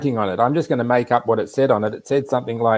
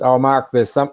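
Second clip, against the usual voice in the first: imitated Wisconsin accent, slightly higher; 4 semitones higher, 4 dB louder than usual. Friend tells him something's waiting for him, imitated Wisconsin accent. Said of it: "Wisconsin accent".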